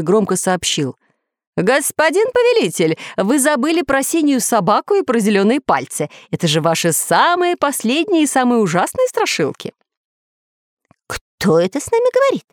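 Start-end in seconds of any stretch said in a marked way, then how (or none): 1.6-9.7 high, bright, merry announcement; ringing cheerful computer voice. Acted. Computer calling out cheerfully to its master, high and ringing. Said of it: "звонкий весёлый голос". 11.1-12.4 very high startled cry. Acted. Parrot startled by a voice from the computer, a high startled cry. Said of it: "подпрыгнул от удивления попугай".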